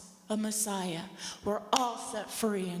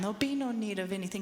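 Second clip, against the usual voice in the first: normal talking voice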